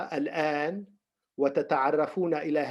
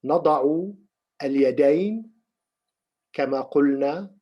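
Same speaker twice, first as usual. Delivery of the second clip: slow, measured instructions with long pauses; unhurried meditation teacher, pausing often; guided meditation; slower than usual. Real, not acted. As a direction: guide them into the posture slowly, phrase by phrase.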